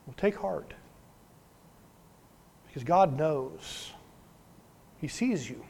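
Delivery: soft, spaced-out words of comfort; gentle reassurance. Real, not acted. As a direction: let each short phrase land softly and kindly. Preacher reassures weary congregation.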